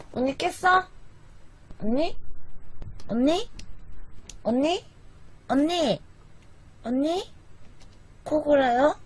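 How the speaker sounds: 높고 조용하게 언니를 부르듯; 자는 사람을 깨우지 않게 살살 부르기; soft calling. Real, not acted. Softly checking if sleeping sister woke. (잠든 언니가 깼는지 조용히 떠보며 부르는 목소리)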